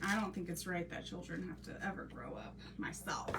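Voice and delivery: whispered aside, unvoiced; a hushed half-joking aside. Real, not acted. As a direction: breathe it like a confession. Aside about children growing up.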